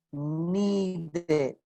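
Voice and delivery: "Need" for needed, with the ending sounded; "Need" said as nee-ded, clear end syllable; voiced ED. Shown as a demonstration. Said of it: "Ahí esa E sí suena".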